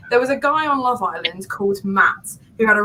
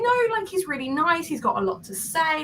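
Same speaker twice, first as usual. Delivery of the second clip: higher-pitched imitation of a mum; protesting mum; 7 semitones higher, 3 dB quieter than usual. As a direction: defend him in a high mum voice. Acting out Mum defending the man.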